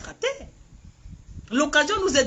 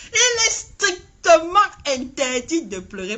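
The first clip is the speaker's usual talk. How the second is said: mock crying; 3 semitones higher, 4 dB louder than usual. Repeats the mock crying line.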